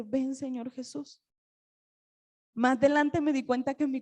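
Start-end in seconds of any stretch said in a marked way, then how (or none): 0.0-1.2 much softer, slow and unsure; hesitant. Retold or imitated. Preacher recalling she could not pray it, hushed and hesitant. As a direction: say "Ven, Señor Jesús" quietly and slowly, rising at the end like a doubt. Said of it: "Y yo no podía decir".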